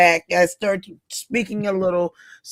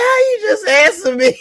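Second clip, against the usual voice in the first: laughing disbelief; 14 semitones higher, 3 dB louder than usual. Retold or imitated. Laughing at a friend's answer.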